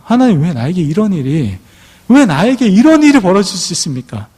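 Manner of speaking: rising anguished complaint to God; complaining to God. Retold or imitated. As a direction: cry out to God in grievance. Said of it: "하나님께 원망합니다".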